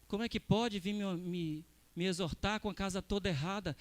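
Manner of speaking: low, subdued complaint under the voice; mock grumbling. Preacher imitates those resenting correction, low mock grumbling. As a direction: imitate someone grumbling to themselves.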